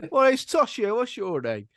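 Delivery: loud, high and laughing; a laughing mock child answer; laughing mock reply. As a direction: blurt it out through laughter.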